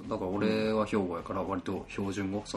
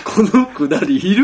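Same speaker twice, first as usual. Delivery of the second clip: laughing protest; 11 semitones higher, 16 dB louder than usual. Real, not acted. Protesting a friend's teasing while laughing hard. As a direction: asks while cracking up, loud and high.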